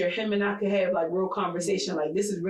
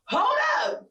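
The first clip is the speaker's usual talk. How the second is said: high shocked exclaim; 9 semitones higher than usual. Retold or imitated. Wife retelling her shock at her partner's new habits, high laughing exclaim. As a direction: yelp it out in amused disbelief.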